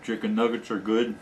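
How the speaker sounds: cheeks stuffed full; words round a bite of food; mouth full. Real, not acted. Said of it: "my mouth is almost always full".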